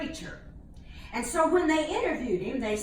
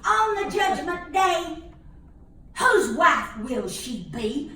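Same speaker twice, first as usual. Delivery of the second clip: mock sermon. Preacher-style rhetorical climax.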